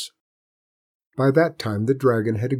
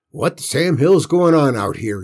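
demanding; 4 semitones higher, 5 dB louder than usual. A narrator's reading. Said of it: "he demanded".

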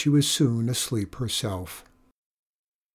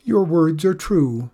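gentle pleading; 4 semitones higher, 4 dB louder than usual. Acted. Old traveller begging Griselda not to fuss over her, mild pleading. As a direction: ask humbly, not wanting to be a burden. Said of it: "pleaded the visitor".

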